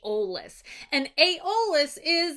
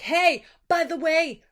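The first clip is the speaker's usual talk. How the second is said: mild mock yell; 4 semitones higher, 4 dB louder than usual. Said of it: "He yells back".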